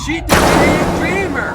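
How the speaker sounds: high, loud dramatic outburst; climactic shout. A narrator's reading. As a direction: shout out the big blow. Climax of the fight narrated.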